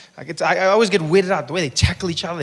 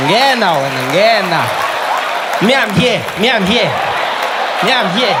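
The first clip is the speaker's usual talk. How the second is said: players declining; 3 dB louder than usual. Retold or imitated. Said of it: "black people are like".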